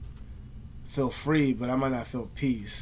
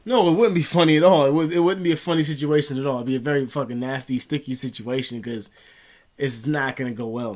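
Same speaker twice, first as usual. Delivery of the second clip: loud, emphatic retold rejection; indignant retort; 6 dB louder than usual. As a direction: shoot the joke down loudly, then ease off. Retold indignant refusal to a joke.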